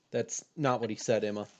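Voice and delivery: usual speaking voice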